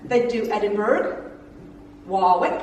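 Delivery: Warwick with a rolled American R, rising at the end; American accent. Retold or imitated. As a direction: say Warwick like an American tourist, a light rhotic R. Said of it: "please excuse the accent".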